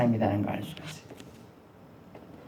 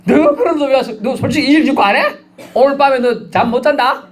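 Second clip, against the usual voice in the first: higher, half-laughing bully voice; mock threatening; 10 semitones higher than usual. Disciples threatening the traitor, mock menacing and laughing. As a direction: lean in like a schoolyard threat, grinning. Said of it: "막 협박 공갈하면".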